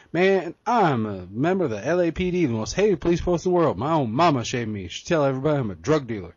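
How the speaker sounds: lightly voiced comic cop rant; a hint of a brash Rush Hour cop; Chris Tucker impression. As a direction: loose imitation of a movie cop. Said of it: "As it was that Chris Tucker said".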